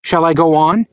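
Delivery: casual tossed-off question; offhand. Retold or imitated. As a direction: ask it lightly, as if nothing. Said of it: "in an offhand way".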